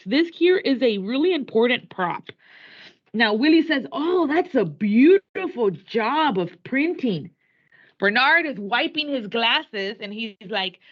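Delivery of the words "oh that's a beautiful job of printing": admiring dad. Retold or imitated. Teacher voices Willie admiring.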